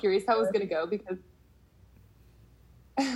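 choppy connection voice; speeding up and slowing down; glitchy call audio. Real, not acted. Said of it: "your voice is speeding up and slowing down".

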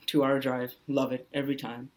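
dry, understated sarcasm; sarcastic. Real, not acted. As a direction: feign love for the long drive, deadpan. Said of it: "that's sarcasm".

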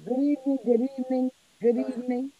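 muffled mic sound. Real, not acted. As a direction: voice muffled, through a wall. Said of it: "Still sound muffled".

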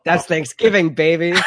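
loud excited party yell; rowdy shout. Real, not acted. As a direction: whoop it out like a party guest. Rowdy cheer at the table.

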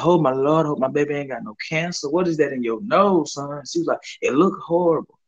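high, fretting mother voice; worried mama. Retold or imitated. Mother fretting over her son's nose, mild worried voice. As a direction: lightly play a panicking mom. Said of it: "you know how black mama is".

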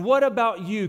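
ordinary talk

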